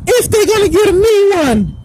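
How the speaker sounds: a mocked damned soul whining; mock crying. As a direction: sneer at them as crybabies. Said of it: "in the lake of fire saying".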